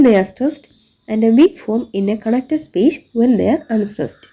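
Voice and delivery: reads the textbook definition word by word, very slowly; slow dictation reading. Shown as a demonstration. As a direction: dictate it slowly so the class can write it down.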